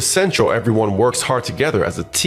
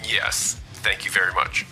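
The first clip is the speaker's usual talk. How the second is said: soft and deflated; subdued, humbled thanks; 3 semitones lower, 7 dB quieter than usual. Acted. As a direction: thank them meekly after a dressing-down. Humbled after being lectured.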